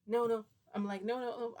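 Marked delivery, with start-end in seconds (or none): 0.1-0.4 high, loud panicked protest. Retold or imitated. Panicked pleading to vampire. 1.0-1.6 high, loud frantic no; panicked no. Retold or imitated. Panicked pleading to vampire.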